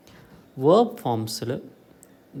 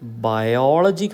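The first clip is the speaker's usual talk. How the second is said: ബയോളജി with OL punched louder; stress on second syllable; 5 dB louder, slower than usual. Shown as a demonstration. Teacher showing the correct stress, OL stressed in ബയോളജി. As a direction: lean on the OL in ബയോളജി. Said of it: "അതിന് stress കൊടുക്കുന്നത് കറക്റ്റാണ്".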